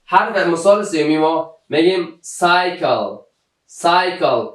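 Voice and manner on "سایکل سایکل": "سایکل" with S first and K in the middle; teacher's careful "سایکل", S sound then K sound. Shown as a demonstration. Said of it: "سی اول ما صدای سی نداده و سی".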